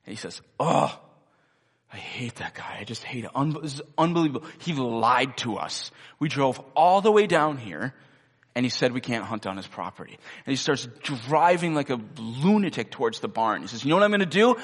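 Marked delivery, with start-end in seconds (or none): 0.6-10.2 mock raving mad. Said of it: "pretends to just be raving mad". 13.8-14.6 mock lunatic threat. Pretend-mad friend threatens mule.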